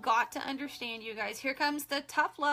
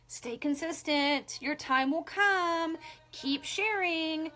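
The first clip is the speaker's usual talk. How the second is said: slow, higher, sing-song parroting of leaders; mocking upline advice; 3 semitones higher, slower than usual. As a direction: drag out the advice like a patronizing upline. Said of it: "we just get told".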